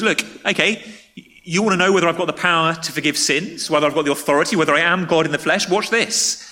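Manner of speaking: confident challenge, pitched a little up; challenging. Acted. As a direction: throw down a challenge, building to the last words. Jesus challenging the religious leaders.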